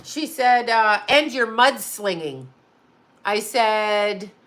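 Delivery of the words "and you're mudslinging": measured, slow accusing statement; quoted accusation. Retold or imitated. Lawyer accuses client in a letter, slow accusation. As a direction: state the charge slowly, falling at the end.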